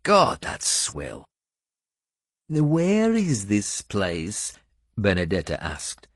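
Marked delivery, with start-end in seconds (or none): 0.0-1.2 disgusted. Acted. Finnan disgusted by the wine. 2.5-4.5 Benedetta's voice. Acted. Benedetta's question.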